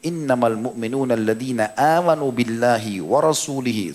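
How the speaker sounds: slow, measured Arabic recitation with drawn-out vowels; Quran recitation. Acted. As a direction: recite the verse, stretching the long syllables. (membaca ayat Al-Quran dengan tartil)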